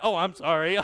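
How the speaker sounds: sorry through laughter; laughing apology. Retold or imitated. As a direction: apologize but can't stop laughing. Apologizing while laughing in cinema.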